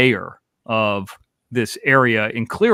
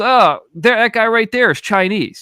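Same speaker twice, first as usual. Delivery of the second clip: high, loud imitation of a know-it-all; cocky certainty; 9 semitones higher, 4 dB louder than usual. Friend singling out a stranger, mock cocky. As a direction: point him out in a raised mock voice. Retelling the friend pointing someone out.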